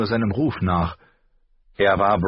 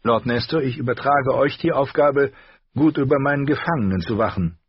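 firm order, higher; commanding lady; 7 semitones higher than usual. A narrator's reading. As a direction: stress on "Aufgabe" as a firm command. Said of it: "befahl Catelyn". (bestimmender Befehlston der Lady)

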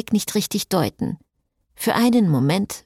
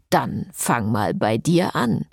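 teasing jab; 5 semitones lower, slower than usual. Acted. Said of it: "stichelte Frédéric".

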